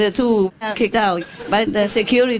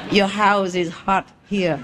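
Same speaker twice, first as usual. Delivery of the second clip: put-on French accent. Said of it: "the Frenchman ... says".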